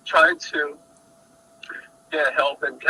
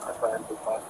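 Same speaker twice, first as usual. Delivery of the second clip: very quiet; 3 semitones lower, 9 dB quieter than usual. Real, not acted. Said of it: "You're talking too low".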